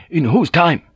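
high, forceful challenge; erupting. A narrator's reading. Young brother challenging his superior, erupting. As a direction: burst in with an angry question. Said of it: "Joseph erupted".

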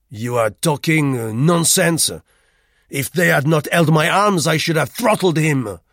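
put-on loud, high French-accented bluster; a proud brawler boasting of his rage; Rue, boastful angry Frenchman. A narrator's reading. Voices Rue in story.

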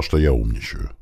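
usual speaking voice

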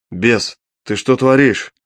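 slow, indignant demand. Acted. Hero scolds the gambling imp, indignant. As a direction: call the imp out, outraged. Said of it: "Возмущённо осведомился я".

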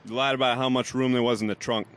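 lightly put-on New Yorker; understated New York accent. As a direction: deliver it like a New York mobster. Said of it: "that's New York right there".

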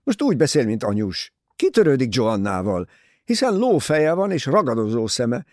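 a son fuming about a woman he dislikes; angry. A narrator's reading. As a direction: rant at her in anger. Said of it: "Kiáltott dühösen Tim".

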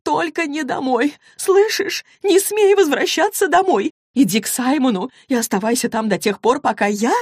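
high, loud frantic warning; mother on phone orders daughter away in panic; panicked mother. Acted. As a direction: shriek the warning in terror. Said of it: "В мамином голосе ощущалась паника".

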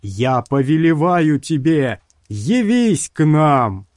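commanding, slow on the last words; commanding sorcerer. A narrator's reading. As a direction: summon it with full authority. Sorcerer summoning the worm.

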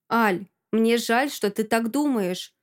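slow, gritted-teeth restraint; through gritted teeth. Acted. Masha answering jealous Alka, slow and gritted. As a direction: press each word out slowly, holding back. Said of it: "Цежу сквозь зубы".

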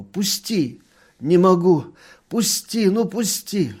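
put-on high, loud pleading girl. A narrator's reading. Dunya begging the doctor to let her go, high and pleading. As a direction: beg him to let go. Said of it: "молила его".

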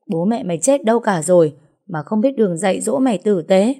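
lightly voiced angry older woman, pitch lifting on taunts; scornful jealous wife. Wife throwing spy evidence at the accused woman, mildly acted scornful scolding. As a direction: scold her with contempt.

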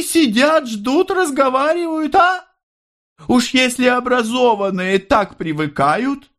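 amazed exclaiming. A narrator's reading. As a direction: marvel aloud, high and wondering. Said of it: "с удивлением воскликнула она". (мать удивлённо восклицает, очень высоким голосом)

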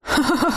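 short high mocking laugh. A narrator's reading. Ex-husband laughing at the crying woman. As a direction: laugh at her pain. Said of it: "Виктор снова засмеялся".

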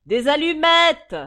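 crié haut, fort et lent; réclamé en criant. Acted. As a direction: exige les allumettes à tue-tête. (cri aigu et lent)

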